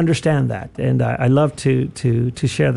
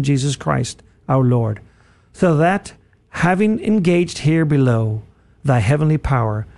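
steady, reverent prayer reading. Real, not acted. Radio host leads listeners in the prayer, reverent. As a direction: pray it aloud with measured devotion.

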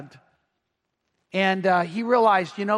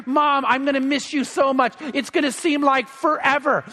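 put-on higher, mildly plaintive child's plea; a touch of mock crying, pitch raised; retold tearful boy; 4 semitones higher than usual. Sixth grader clinging to his departing mom, mild retold crying. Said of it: "starts crying".

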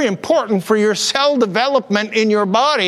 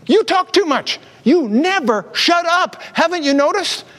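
daughter's voice; 5 semitones higher than usual. Retold or imitated. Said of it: "She says".

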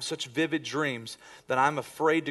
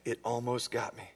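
dazed; 5 semitones lower, 9 dB quieter than usual. Retold or imitated. Dazed sleeper answers his mom.

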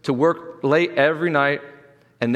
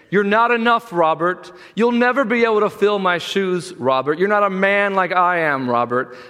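mildly hammed-up fatherly put-down, raised pitch; scolding father; 4 semitones higher than usual. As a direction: voice a father hammering his son with reproach. Voicing the dead father's disappointment in his son.

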